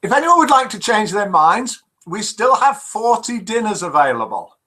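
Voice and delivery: high-pitched cabin announcement; flight attendant announcement. Acted. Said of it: "Her next announcement came about two hours later".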